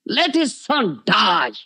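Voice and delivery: slow, high retold curse; angry curse. Nityananda curses Shivananda's son over poor arrangements, an angry curse. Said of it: "He cursed like this".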